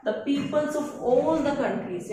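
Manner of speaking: slow, spaced-out example sentence; slow dictation. Shown as a demonstration. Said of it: "जब पूरे world की बात".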